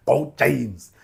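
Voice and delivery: luider, hoger gejuich; loud cheer. Real, not acted. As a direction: juich het uit voor James. Cheering again, louder.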